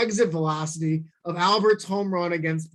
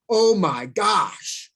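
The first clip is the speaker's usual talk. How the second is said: mouthed oh my gosh; 2 semitones higher, 3 dB louder, much slower than usual. Retold or imitated. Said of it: "he's mouthing it".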